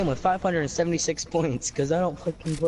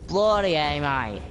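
mock Aussie "Bloody A, mate"; Australian accent; 3 semitones higher, 4 dB louder, slower than usual. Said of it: "Oh, that's not even Australian".

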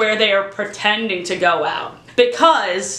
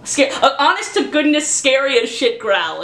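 假装凶狠地低吼; angry growl; 2 semitones higher than usual. Shown as a demonstration. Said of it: "Let me try an angry growl".

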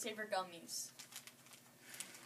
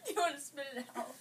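laughing; 2 semitones higher, faster than usual. Real, not acted. Laughing while friend tastes candy.

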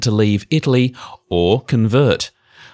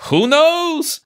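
put-on high shrugging Yiddish accent. Rabbi shrugs.

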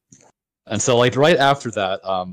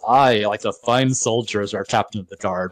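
sarcastic. Retold or imitated. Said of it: "in sort of, like, a sarcastic way".

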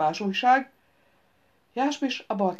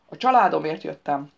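heavy theatrical stress, a bit louder; dramatic emphasis; 3 semitones lower, 4 dB louder than usual. A narrator's reading. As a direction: declare it like a stage hero. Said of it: "mondta drámai hangsúllyal Jeremy".

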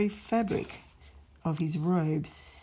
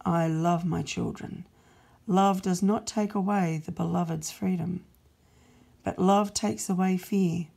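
louder, firm promise of love; God's resolute voice; 5 dB louder than usual. Acted. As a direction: declare it proudly. God speaks of love.

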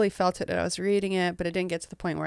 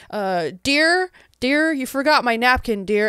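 lightly voiced prim lady, calling staff dear; a hint of a haughty lady talking down to staff; mock prim diva; 5 semitones higher, 8 dB louder than usual. Hef's partner, to the staff, in a lightly mocking prim voice. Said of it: "she's walking out like".

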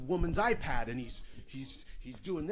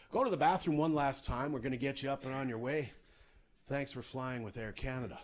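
lightly voiced airline captain; breezy cabin PA voice; pilot announcement.

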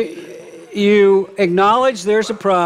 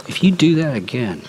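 empty threat; 4 semitones lower than usual. Shown as a demonstration. Preacher demonstrating an empty threat to a child. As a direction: threaten it without meaning to follow through. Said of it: "empty threats".

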